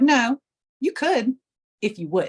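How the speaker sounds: mentor's emphatic "you could", then settling; firm correction. Retold or imitated. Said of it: "And she's like".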